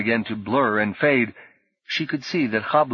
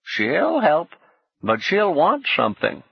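slow lisping Whistler; 7 semitones higher than usual. A narrator's reading. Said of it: "He spoke slowly and wore a lopsided grin".

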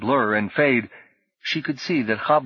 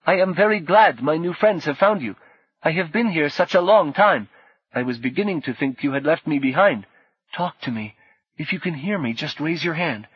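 distorted Sim voice; 6 semitones higher than usual. A narrator's reading. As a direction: speak like a lost friend through a glitchy avatar. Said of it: "despite the distortion, was recognizably the bushman's".

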